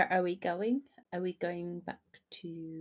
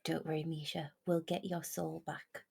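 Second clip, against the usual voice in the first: very soft, hushed reassurance; softly consoling a friend; comforting whisper; 3 semitones lower, 11 dB quieter than usual. Acted. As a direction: murmur it low and close, for one listener only. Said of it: "just gonna whisper to Misha".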